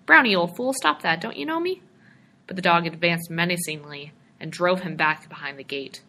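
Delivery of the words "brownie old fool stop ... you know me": loud, high pleading shout. A narrator's reading. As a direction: yell at the dog to stop. Dog attacks, he keeps shouting.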